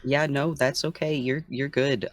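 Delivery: a touch of tender reassurance; gentle reassurance. Acted. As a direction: soothe someone who is upset. Reassures the distraught character.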